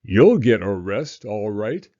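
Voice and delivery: loud triumphant shout. Acted. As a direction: bellow it at the thieves. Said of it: "shouted Mister Dart".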